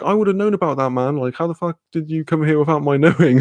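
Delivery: mildly annoyed complaint, retold; retold annoyance. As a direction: protest like a put-out fan. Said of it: "I was, like, annoyed".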